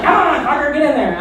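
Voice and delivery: high, strained mock urging at the ring; will the ring back into the jeans; hammed-up annoyed coaxing; muttered frustration.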